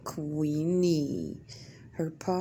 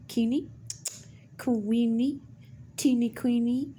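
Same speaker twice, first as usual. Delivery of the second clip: rising sing-song call; calling cat; 4 semitones higher than usual. Real, not acted. Owner calling out to her cat, rising sing-song. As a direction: call her name up the scale, coaxing.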